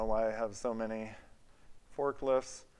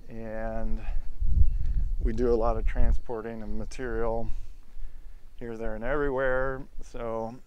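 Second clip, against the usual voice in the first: shouting over machinery; 10 dB louder than usual. Real, not acted. Loud outdoors near running equipment.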